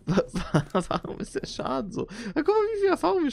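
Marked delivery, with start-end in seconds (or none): 2.3-3.3 excited. Real, not acted. Pleased at experience gained.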